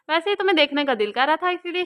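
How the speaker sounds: said with an audible smile, teasing; a light smiling tease. A narrator's reading. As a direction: smile through it, pleased with himself. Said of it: "मुस्कुराकर बोला था".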